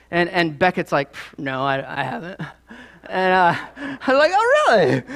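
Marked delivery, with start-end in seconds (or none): 1.1-2.4 low, soft mock brush-off; puff, then quietly play down the denial; dismissive denial. Son waving off his father's question, mock dismissive. 4.3-5.0 high-pitched, teasing disbelief; mock disbelief. Father challenging his son's denial, mock disbelief.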